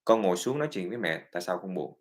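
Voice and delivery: mẹ hỏi con dịu dàng; gentle caring parent. Retold or imitated. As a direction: invite the child to sit and talk. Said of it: "it is the parents' job to find out".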